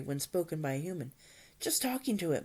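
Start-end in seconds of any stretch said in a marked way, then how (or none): 1.6-2.4 higher, sheepish admission; mild acted embarrassment; embarrassed mumble. A narrator's reading. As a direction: own up sheepishly. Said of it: "mumbled Hiccup, very embarrassed".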